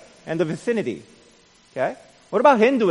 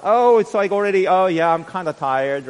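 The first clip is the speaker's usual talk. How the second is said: hammed-up sleepy excuse, starting much higher and louder; mock tired excuse; 8 semitones higher, 10 dB louder than usual. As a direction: lightly mimic a lazy churchgoer. Mimics churchgoer's lame excuse.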